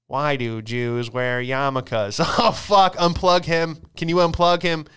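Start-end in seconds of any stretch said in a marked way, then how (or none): 2.2-2.9 laughing curse. Real, not acted. Laughing panic at robot joke. 3.0-4.8 mock urgent plea. Urgent plea to unplug robot.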